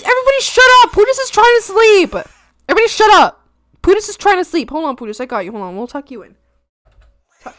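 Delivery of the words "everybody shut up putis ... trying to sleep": mock shushing. Shushing chat for sleeping pet.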